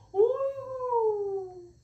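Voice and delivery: very high, long drawn-out cheer; delighted praise. Real, not acted. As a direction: squeal with joy at the dog. Dog did the trick. (신나서 칭찬하는)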